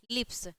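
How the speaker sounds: "लिप्स" ending in a voiceless s; final s sound. Shown as a demonstration. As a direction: end "लिप्स" on s, not z. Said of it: "स हो जाएगा". ("लिप्स" के अंत में स की ध्वनि)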